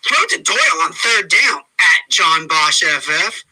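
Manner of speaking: a lightly voiced taunting rival reading his tweet; Scott's voice. Host lightly imitating a rival's trash-talk tweets during the game. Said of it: "I should probably do it in Scott's voice".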